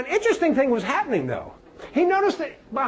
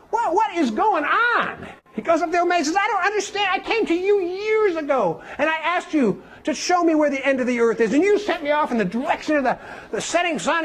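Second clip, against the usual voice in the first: higher, puzzled complaint; indignant young man; 5 semitones higher than usual. Acted. Young man confronting the old wise man, high and baffled. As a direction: demand an answer, baffled.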